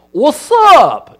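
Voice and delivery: high, loud, breezy what's up; casual greeting. Shown as a demonstration. Speaker demonstrating greetings to the congregation, hammed-up casual. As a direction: toss it out like a buddy. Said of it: "is another".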